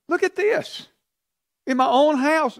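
very high, strained outburst of outrage; outraged king. Acted. King catching Haman with the queen, high outraged cry. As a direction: shriek the outrage of a betrayed king.

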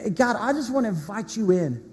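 earnest spoken prayer, slowing on the pleas. Acted. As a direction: pray it over the congregation. Pastor leads a prayer.

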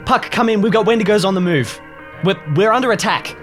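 urgent radio call. Acted. Urgent radio call under attack.

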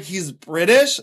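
rising disbelieving question; surprised question. Retold or imitated. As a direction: ask it in disbelief, voice going up at the end. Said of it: "I was like".

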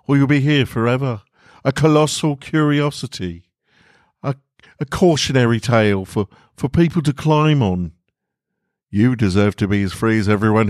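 Walter urging. Acted. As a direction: push him gently to let go.

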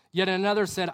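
usual speaking voice

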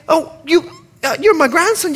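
very high Bahamian granny voice; Bahamian accent. Retold or imitated. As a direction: imitate a puzzled Bahamian grandmother, pitched high. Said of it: "She's Bahamian, excuse the accent".

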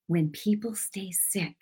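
soft, hushed and slow; whisper. Retold or imitated. The Holy Spirit speaks to her, soft hushed voice. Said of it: "it was like a whisper".

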